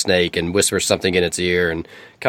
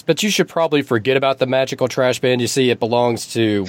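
eagle voice; 4 semitones higher than usual. Acted.

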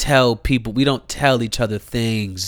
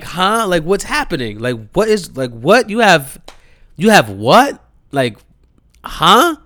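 high, confused, louder questions; baffled; 6 semitones higher, 5 dB louder than usual. Retold or imitated. Son reacting to his mom's news, baffled. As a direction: sputter in confusion.

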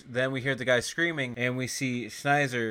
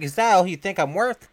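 loud, higher offended comeback; mock indignation; 7 semitones higher, 7 dB louder than usual. Retelling a woman's answer to a cheap offer, indignant. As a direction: act out an insulted reply.

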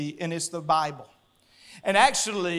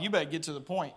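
quiet, low, retold demand; low urgent reply; 7 semitones lower, 10 dB quieter, much faster than usual. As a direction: keep it low and under control. Retelling tense call with officer.

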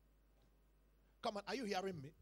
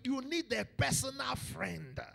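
emphatic preaching; 2 semitones higher, 5 dB louder, slower than usual. Real, not acted. First take, before the shout.

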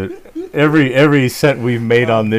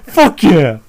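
retold cheer; 6 semitones higher, 8 dB louder than usual. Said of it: "I was like".

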